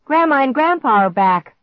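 high, loud, joyful shout; excited shout. A narrator's reading. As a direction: shout the good news out. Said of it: "Clark shouted".

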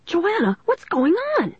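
high-pitched, alarmed demand. A narrator's reading. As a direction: call out sharply for an explanation. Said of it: "Mister Northwood demanded".

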